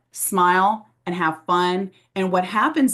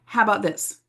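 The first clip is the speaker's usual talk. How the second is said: upbeat reply; 4 semitones higher than usual. Retold or imitated. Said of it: "Then I go".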